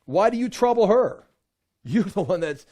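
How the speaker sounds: stern rebuke. Retold or imitated. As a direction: rebuke the critics to their faces. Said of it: "he rebukes them".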